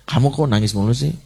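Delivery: mother blaming a crying child, mock nagging; nagging scold. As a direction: rattle off blame at the child. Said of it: "kalau you message".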